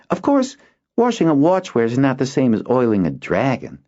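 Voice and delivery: put-on high boy's voice, wistful; dreamy boy. Boy comparing watchware to dragons, wistful. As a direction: dream aloud.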